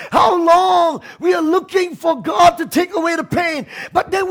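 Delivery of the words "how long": crying out. Retold or imitated. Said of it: "we cried out".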